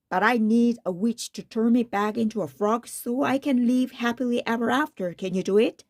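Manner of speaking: one long breath. Acted. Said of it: "in one long breath".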